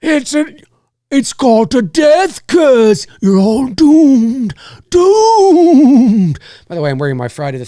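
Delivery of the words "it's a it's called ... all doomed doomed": slow, loud doom-prophet warning; slow ominous raspy drawl. Retold or imitated. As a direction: growl out the death warning slowly. Quoting the doom-prophet character.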